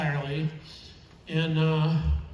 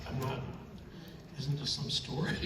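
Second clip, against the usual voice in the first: emotional; 11 dB quieter than usual. Real, not acted. Speaker apologizing to the audience because this is real stuff, emotional. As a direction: apologize while getting choked up, voice dropping away. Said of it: "sorry, I get emotional".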